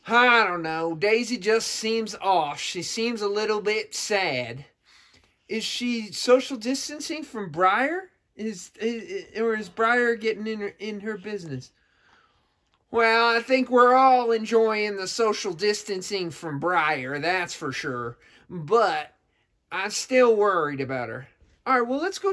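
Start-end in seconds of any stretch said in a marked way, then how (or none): 0.1-4.7 slow, drawn-out Southern character voice; Southern accent. Acted. Southern character confiding worry about Daisy, in a Southern accent. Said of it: "You gotta get my accent better". 12.9-21.3 put-on Southern accent. Southern character confiding worry about Daisy, in a Southern accent. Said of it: "You gotta get my accent better".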